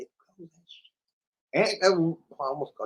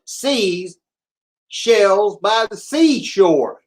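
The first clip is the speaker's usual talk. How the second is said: slow careful tongue twister; 5 semitones higher, 5 dB louder, much slower than usual. Shown as a demonstration. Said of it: "Thought you got me".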